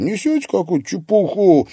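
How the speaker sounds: irritated. A narrator's reading. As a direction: dismiss her nonsense. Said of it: "раздражённо бросил Игорь".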